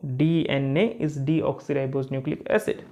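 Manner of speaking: very slow, word by word for writing; slow dictation. Shown as a demonstration. Teacher dictating a line for students to write, slowly. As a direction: dictate it so they can write along. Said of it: "कि लिखो".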